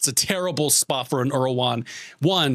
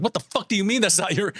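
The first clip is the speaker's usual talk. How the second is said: unspoken angry retort; 5 semitones higher, faster than usual. Retold or imitated. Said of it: "I didn't say that".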